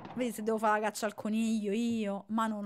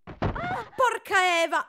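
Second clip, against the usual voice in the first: sudden high yelp then oath; startled cry; 7 semitones higher, 4 dB louder, slower than usual. Real, not acted. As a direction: jump at the scare. Startled exclamation. (esclamazione di spavento)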